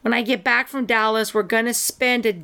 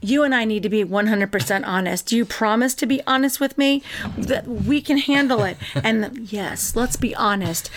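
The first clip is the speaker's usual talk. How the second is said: lightly acted soap-opera heart-to-heart; mildly hammed-up solemn plea; earnest TV character; 3 semitones lower than usual. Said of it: "it's like this".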